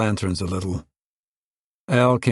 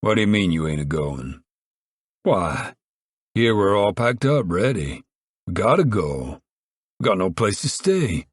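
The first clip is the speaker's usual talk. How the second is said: Pa demanding. Acted. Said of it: "Pa demanded".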